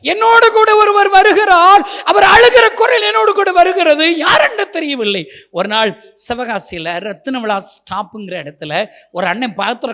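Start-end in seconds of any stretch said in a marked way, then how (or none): 0.1-5.2 loud plea. Retold or imitated. Retold anguished plea about weeping voice.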